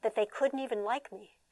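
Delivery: soft, slow lament; abused child wondering what's wrong with him; sad child. Retold or imitated. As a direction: ask it like a hurt kid. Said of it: "the abused kid says".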